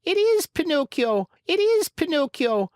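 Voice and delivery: high, loud chorus-like yell. Acted. The marionettes pour out of the wings, yelling with joy. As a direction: cheer it out together. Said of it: "yelled all the marionettes".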